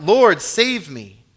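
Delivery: loud, slow scripture plea; crying out. A narrator's reading. Preacher reading Peter beginning to sink, crying out. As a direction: draw out the cry for help. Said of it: "he cried out".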